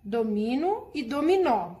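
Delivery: domino with stress on MI, then dominó with the final ó stressed and open; teacher reads the word pair aloud to the class, contrasting stress; accent contrast read aloud. Shown as a demonstration. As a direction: set domino against dominó by where the stress falls. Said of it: "Lê em voz alta as palavras a seguir".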